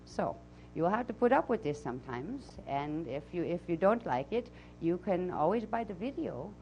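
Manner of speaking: put-on channeled voice with a Transylvanian accent; Azara's Transylvanian accent. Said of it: "I'll come back from my, uh, Transylvanian accent".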